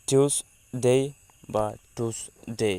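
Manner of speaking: টিউসডে offered a second way, steady and clear; alternative pronunciation. Shown as a demonstration. Teacher offering an alternative টিউসডে, clear and steady. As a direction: present টিউসডে as another acceptable form. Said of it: "বা আমরা টিউসডেও বলতে পারি".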